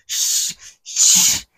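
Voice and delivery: voiceless furious huffing breaths; slow, breathy seething puffs; angry huffing. Retold or imitated. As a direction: huff through the teeth in a rage. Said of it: "혼자서 막 씩씩거리고".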